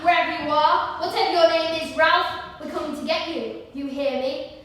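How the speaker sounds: low, soft threat to someone hiding; menacing taunt. Acted. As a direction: call softly to the hidden prey. Hunter taunting hidden boy.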